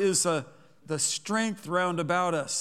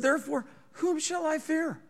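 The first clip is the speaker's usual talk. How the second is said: much higher, defiant; defiant rhetorical question; 11 semitones higher than usual. Acted. David defying his fears before the congregation, high and bold. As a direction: ask it fearlessly, lifted high. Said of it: "he said".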